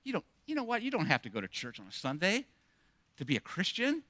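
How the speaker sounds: quiet, soothing whisper-like coaxing; a hint of a sly tempter murmuring; soft tempting voice. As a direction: lull them into giving up, softly. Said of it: "we start hearing that voice".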